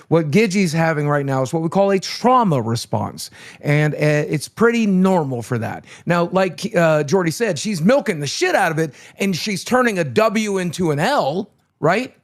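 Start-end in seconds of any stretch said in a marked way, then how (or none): 0.1-5.8 more energy. Real, not acted. Guest retrying after the host asks for energy, livelier. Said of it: "Okay, let me try again".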